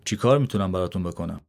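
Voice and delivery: brisk, dry guard's question. Acted. Guard at the gate questions the young visitor, dry and brisk. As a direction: ask it curtly, a bit quick. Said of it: "با لحنی خشک پرسید".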